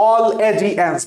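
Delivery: "all এ জি এনস" as distinct syllables; "all, এ, জি, এনস" evenly separated; broken-up pronunciation. Shown as a demonstration. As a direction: say "all এ জি এনস" in pieces, like a memory hook. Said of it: "এটা মনে পড়বে".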